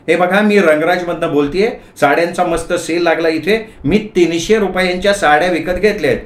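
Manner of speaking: wife on the phone. Acted. Wife calling husband from a saree sale, high eager-to-tell voice. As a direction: announce your shopping as the wife.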